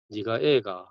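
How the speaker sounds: Gyeongsang dialect, slight drop in pitch. Shown as a demonstration. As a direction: say it the Gyeongsang way, 애가 as a question. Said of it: "그 경상도 말로".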